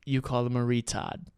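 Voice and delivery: dropped-R Boston pronunciation; Boston accent. Shown as a demonstration. Host introduces a New England phrase, Boston accent. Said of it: "a word on the Boston accent".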